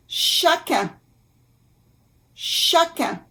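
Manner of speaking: "Chacun" in French, ending in a nasal vowel; careful French pronunciation. Shown as a demonstration. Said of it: "U N".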